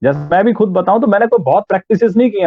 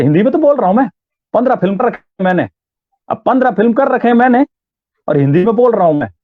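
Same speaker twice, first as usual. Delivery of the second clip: put-on Uttarakhandi accent; 4 semitones higher, faster than usual. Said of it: "तो ये जो accent है".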